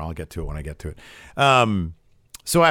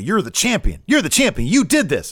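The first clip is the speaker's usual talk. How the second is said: high, insistent rallying of someone doubting himself; imitated motivational push; urging pep talk; 9 semitones higher, 4 dB louder than usual. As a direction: act out hyping up the champ, pitch jumping up. Retold pep talk urging conviction.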